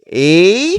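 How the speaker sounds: A called out high and loud; very clear letter sound. Shown as a demonstration. Teacher to students reciting the alphabet, clear loud A. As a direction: model a strong, clear A for the class. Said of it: "say the word in a very, very clear sound".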